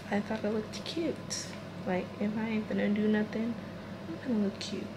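soft hushed voice; quiet so no one wakes; talking low. Real, not acted. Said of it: "So I'm gonna talk low".

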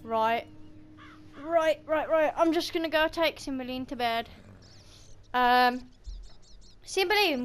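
real, casual Black Country accent; everyday Black Country family chat. Real, not acted. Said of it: "apologise for my accent in the video".

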